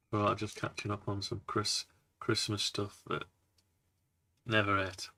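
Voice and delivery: munching through words; chewing while talking. Real, not acted. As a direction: talk round a mouthful. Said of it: "Just wondering if you could hear me munching".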